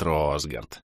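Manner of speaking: name drops low and soft, savouring it; a low, soft smiling murmur of the name; the villain purrs a familiar name; quiet pleased murmur. Acted. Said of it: "растянул губы в радостной улыбке".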